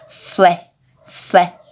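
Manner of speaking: FLÉ with a wide open E; open E sound. Shown as a demonstration. Teacher showing children the vowel, open-E FLÉ. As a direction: say FLÉ as a separate syllable, E open as in "bet". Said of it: "É um som mais aberto".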